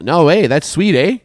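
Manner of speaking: imitating himself at the coffee shop; retold Canadian "eh". Host retelling his reply to the barista in Canadian. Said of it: "I'm like".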